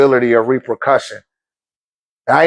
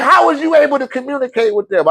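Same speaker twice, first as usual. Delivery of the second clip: imitating wife; 8 semitones higher than usual. Wife voiced in story.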